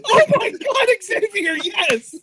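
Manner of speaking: high, thrilled shouting; excited yelling. Real, not acted. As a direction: scream it like a fan. Cheering Xavier's headbutt.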